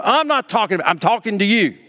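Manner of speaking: insistent acted scolding; insistent parent. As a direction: imitate a parent overriding a child's excuse. Acted parent cutting off child.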